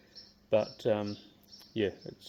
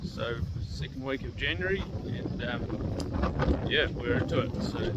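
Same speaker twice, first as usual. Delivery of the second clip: outdoors, wind hitting the mic; 3 semitones higher than usual. Real, not acted. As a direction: wind noise over the mic. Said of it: "excuse the wind noise out here".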